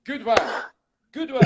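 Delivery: high French-detective catchphrase; short, hammed-up French accent; Inspector Clouseau. Quoting his favorite Pink Panther line, comic French detective. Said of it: "And then my favorite line".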